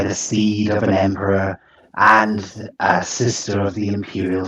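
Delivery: lightly voiced monster mother, measured and proud; deliberate, stately boasting of her brood; imperious creature.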